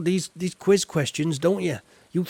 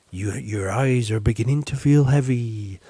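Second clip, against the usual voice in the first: mock hypnotist; 4 semitones lower, 4 dB louder than usual. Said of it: "I'd be a good hypnotist".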